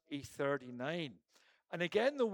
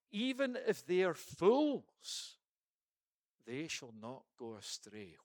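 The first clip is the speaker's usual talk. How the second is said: tender scripture line; 2 semitones lower than usual. Acted. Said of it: "the line that really strikes me".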